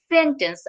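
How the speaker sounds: সেন্টেন্স as "sen-tens", T sounded; T pronounced. Shown as a demonstration. Teacher showing what they didn't say, sounded T. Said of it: "আমি কিন্তু সেন্টেন্স বলি নাই".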